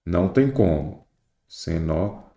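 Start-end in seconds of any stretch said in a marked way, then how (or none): 1.5-2.3 "Cenozoico" broken into separate syllables. Shown as a demonstration. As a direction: say "Cenozoico" in chunks, pausing between syllables. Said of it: "você precisa separar em sílabas".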